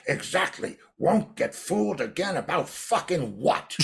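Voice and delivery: lightly voiced sneering bandmate; mocking John. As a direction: sneer it back as a joke. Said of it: "And John goes".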